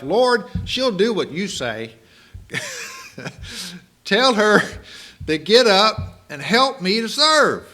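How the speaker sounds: high, loud, exasperated mock demand; fed-up plea. Martha demands the Lord send her sister to help, exasperated. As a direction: she has had enough, and makes it heard. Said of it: "finally she had enough".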